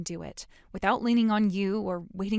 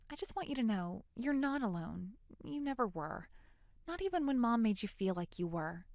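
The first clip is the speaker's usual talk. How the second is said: tender reassurance; 6 dB quieter than usual. Acted. Reassuring sister after emotional talk.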